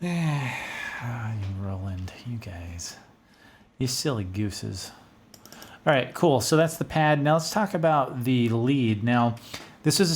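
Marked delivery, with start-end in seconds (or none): 0.0-4.9 softer, half-whispered teasing of Roland; fond hushed scolding. Real, not acted. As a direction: murmur it like a fond scold to a friend.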